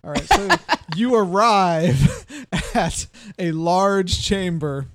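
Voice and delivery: words broken by giggles; fighting back laughter while narrating; stifled giggles. Real, not acted. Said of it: "I'm trying not to laugh".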